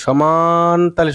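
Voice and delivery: সমান stretched out slowly on one level; even, drawn-out rhythm. Shown as a demonstration. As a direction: drag সমান along evenly. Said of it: "এরকম করে সমানভাবে". (সমান একটানা, সমান তালে)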